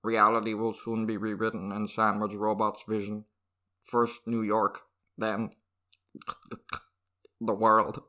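steady robot voice. Acted. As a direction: speak like a machine, evenly. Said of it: "an absolutely perfect robot voice".

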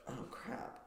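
whispered oh crap; whispered dismay. Real, not acted. Cohost asked to plan his life, whispered dismay. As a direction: breathe it out in mock panic.

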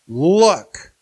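a sharp, loud "Look."; exclamation. Acted. Eldest son snapping at his father, loud. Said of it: "there's an exclamation point".

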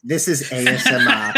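talking through food; eating into the mic; mouth full. Real, not acted. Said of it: "are you eating still".

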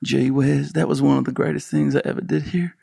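lightly put-on generic Southern American accent; a mild, friendly Southern accent impression; a hint of a small-town Southern accent, like Bill Clinton. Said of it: "can I do my Kansas City impression".

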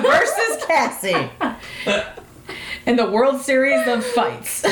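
fight announcer. Pretend. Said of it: "Hear ye".

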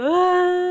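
a sudden high loud sobbing cry; crying gasp. Retold or imitated. Retelling how she broke down crying alone in her car, loud sobbing cry. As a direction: break into a loud wail in the car. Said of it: "llorando en el carro".

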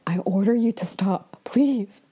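mock order fading into a whispered plea; imitated embarrassment. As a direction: start firm, then beg under your breath. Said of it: "like, super embarrassed".

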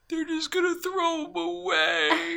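high, slow, drugged-up whimper; drugged crying voice. Retold or imitated. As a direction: imitate her crying on drugs. Imitating drugged crying partner.

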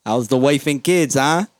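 loud mock workman's banter; construction worker. Construction worker greeting a buddy about family, hollered mock banter. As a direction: shout small talk across the job site. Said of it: "hear the fucking construction workers talking".

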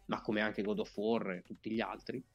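stuffy voice from a head cold. Real, not acted. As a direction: speak as if congested with a cold. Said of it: "da raffreddore".

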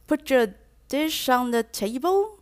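rising request. Shown as a demonstration. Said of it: "同一句话呢，使用不同的语调或者是力度".

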